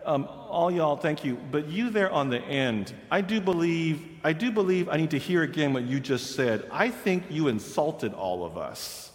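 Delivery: light Southern belle; Southern accent. Retold or imitated. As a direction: sweetly press the old man. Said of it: "the young woman from the South".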